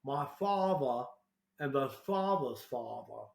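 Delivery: put-on old Southern Charleston accent, drawn out; slow demonstration of a Charleston, South Carolina accent; old-English Southern accent, unhurried. Shown as a demonstration. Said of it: "a very distinct accent".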